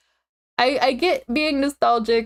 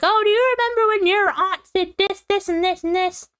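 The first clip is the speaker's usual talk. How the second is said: gossipy relative; 7 semitones higher than usual. Retold or imitated. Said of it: "be like".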